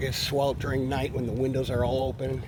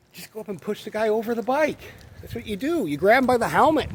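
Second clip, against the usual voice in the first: inner advice; 8 semitones higher, 5 dB louder than usual. Retold or imitated. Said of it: "I thought".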